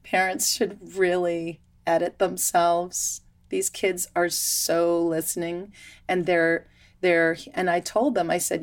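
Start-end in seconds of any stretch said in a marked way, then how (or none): none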